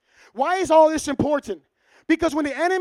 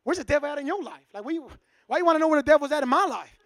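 defensive suspicion; 3 dB quieter, faster than usual. Retold or imitated. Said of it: "he's like".

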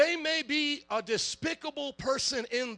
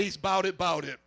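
hood slang; 4 semitones lower than usual. Shown as a demonstration. Pastor has the church tell their neighbor, swaggering and a bit lower. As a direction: lean hard into the slang. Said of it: "Look at your neighbor and say".

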